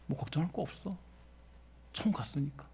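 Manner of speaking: very soft quoted reassurance; calm quote. Retold or imitated. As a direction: repeat the believer's words in a hush. 유족의 한마디를 나직이 인용. (아주 나직하고 담담하게 옮기는 말투)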